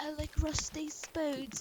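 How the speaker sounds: soft, very slow, very drawn-out put-on British accent. Retelling the voiceover a guy added to his drawing, in a put-on British accent. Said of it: "why did that come out in British".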